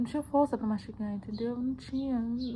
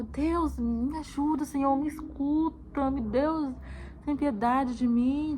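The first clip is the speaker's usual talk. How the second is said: drawn-out, slightly raised plea, no real shout; retold pleading cry; 3 semitones higher, slower than usual. Mother retelling her desperate prayer to God, mild imploring cry. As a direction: re-enact crying out in prayer, stretching the words. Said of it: "e gritava".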